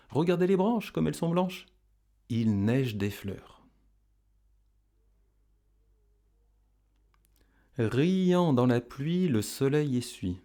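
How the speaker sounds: poem line lifted high, then settling; recitation for repeating. Shown as a demonstration. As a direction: model the verse for pupils to echo. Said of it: "vous pouvez répéter après moi".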